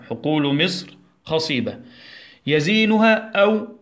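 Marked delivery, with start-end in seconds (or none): 2.5-3.7 higher and louder, slow يزينها announced to class; teacher introducing a vocabulary word; emphatic new word. Shown as a demonstration. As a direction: present يزينها brightly. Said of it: "عندنا كلمتين".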